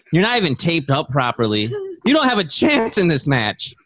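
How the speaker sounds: wrestling promo. Pretend. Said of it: "Go for it".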